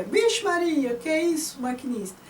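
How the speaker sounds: high like a train whistle, then dropping off; whistle-like high call. Shown as a demonstration. Teacher showing the train whistle in the poem, high squeal. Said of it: "depois o piuí".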